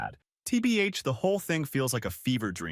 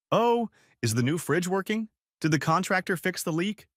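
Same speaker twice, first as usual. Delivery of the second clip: higher-pitched imitation of an eager mom; mock doting mother; 8 semitones higher than usual. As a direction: mimic a mom's keen questions, pitched up. Mom fussing over favored brother.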